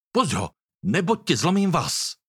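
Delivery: warning hiss. A narrator's reading. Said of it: "zasyčel varovně". (varovné zasyčení)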